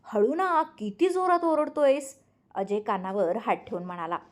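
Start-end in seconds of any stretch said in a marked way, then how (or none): 0.0-2.1 high-pitched protest at the noise; annoyed hushing. A narrator's reading. Ajay telling Ranjit not to shout, annoyed. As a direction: shush him in annoyance.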